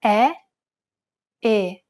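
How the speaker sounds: first E wide open, second E narrow and closed; open E then closed E. Shown as a demonstration. Teacher contrasts open and closed Italian E. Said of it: "Compare the open E followed by a closed E".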